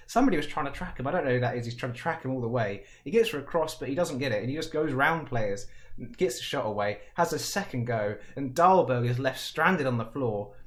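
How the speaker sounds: ordinary talk, nothing marked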